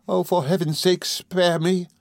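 high, beseeching cry; Emily, pleading. A narrator's reading. Emily begging Rosa to spare her, pleading. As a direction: beg for mercy in a high voice. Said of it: "exclaimed Emily".

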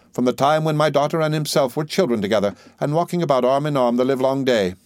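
put-on high, insistent old lady; emphatic. A narrator's reading. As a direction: press each point home. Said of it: "with emphasis".

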